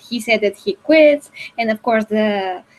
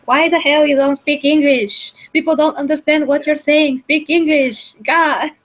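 mock-exasperated outburst, slightly raised; a touch higher, fed-up pleading; embarrassed exasperation; 4 semitones higher than usual. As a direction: complain in exasperation at someone embarrassing you. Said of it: "I'm kind of feeling embarrassed".

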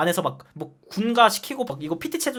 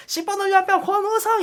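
shouted report; 12 semitones higher than usual. Retold or imitated. Recruit reporting loudly to officer.

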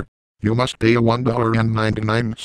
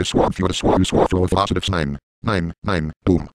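glitching voice; 2 semitones lower than usual. Acted. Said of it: "I am going to crash in five".

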